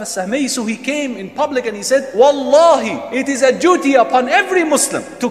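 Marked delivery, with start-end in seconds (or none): 2.1-5.3 solemn proclamation. Acted. Umar proclaims in public.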